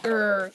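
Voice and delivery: brief mock growl; comic-book growl. Waterboy coming in to kick Tomato Man, mock growl. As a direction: growl like a cartoon hero about to strike. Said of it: "They only growl".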